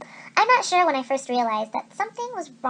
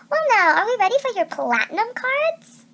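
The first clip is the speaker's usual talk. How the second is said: smooth bellhop; 7 semitones higher, 4 dB louder than usual. A narrator's reading. Bellhop courting guests.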